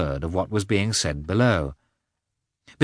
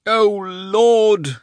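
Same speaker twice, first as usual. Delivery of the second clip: weary sigh; 12 semitones higher, 5 dB louder than usual. A narrator's reading. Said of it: "said the Marshal of the province with a deep sigh".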